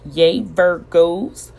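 cheering. Real, not acted. Cheering her star sign.

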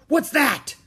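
high, loud startled pirate; shouting. A narrator's reading. Captain Bones hearing a shriek, startled shout. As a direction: bellow in sudden surprise. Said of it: "he shouted".

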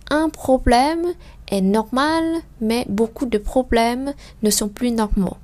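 slow, careful French sentence reading; slow reading demo. Shown as a demonstration. Teacher reading a French sentence slowly for learners. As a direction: read it slowly, syllable by syllable. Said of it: "Donc je continue".

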